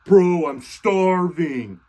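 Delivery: slow, drawn-out mock whine; pestering, stretched-out moan; whining complaint. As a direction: complain with the words dragged right out. Devil voiced pestering Jesus.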